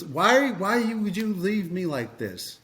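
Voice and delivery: friend's mock plea. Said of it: "He's like, he goes".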